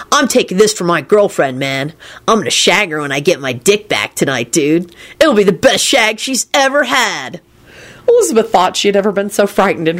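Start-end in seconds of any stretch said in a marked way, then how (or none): 0.1-7.4 laid-back dude confiding his plan; sage dude. A narrator's reading. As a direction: brag like a mellow dude, rising at the end. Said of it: "Kenny told the giant sagely".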